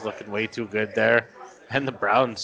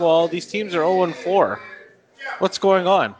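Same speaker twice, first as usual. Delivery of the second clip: mocking fans; 8 semitones higher, 6 dB louder than usual. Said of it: "everyone's like".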